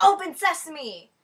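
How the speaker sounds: loud, slow Open sesame; ditzy girl yelling at a door; dumb blonde command. Retold or imitated. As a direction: command the door grandly, slowly. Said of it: "she's like".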